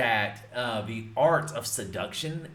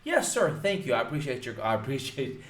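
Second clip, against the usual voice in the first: polite caller. Shown as a demonstration. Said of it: "you don't cuss at them".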